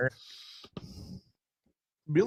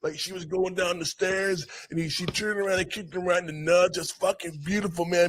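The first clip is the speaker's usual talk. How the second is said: raised-pitch goofy stoner voice; mock interviewee; 6 semitones higher than usual. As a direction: ham up the starstruck interview guy. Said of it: "he gives the interview of all interviews".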